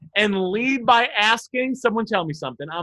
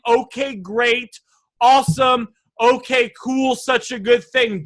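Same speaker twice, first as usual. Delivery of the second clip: slow but upbeat, with a little lift of energy; slower than usual. Shown as a demonstration. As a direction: make the reply sound positive. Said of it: "Gives it a little bit of energy".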